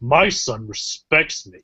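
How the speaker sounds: mock-serious, dark, put-on serious delivery. Friends recount a scene between Disney characters, retelling it in a dark, serious way. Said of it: "he said it kind of in a, in a dark and serious way too".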